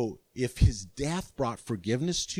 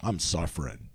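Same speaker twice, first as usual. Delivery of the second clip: mopey complaint; 9 semitones lower, slower than usual. Retold or imitated. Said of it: "you're walking around".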